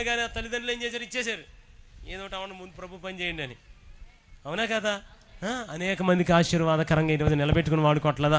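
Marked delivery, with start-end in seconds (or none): 5.4-8.4 forceful preaching. Real, not acted.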